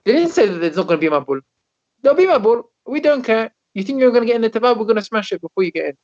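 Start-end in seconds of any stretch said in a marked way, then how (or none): 2.0-6.0 higher-pitched mock defiance; retold jeering. Crowd scoffing at Noach's teva, retold jeering. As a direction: imitate a dismissive, threatening crowd. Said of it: "They used to laugh at".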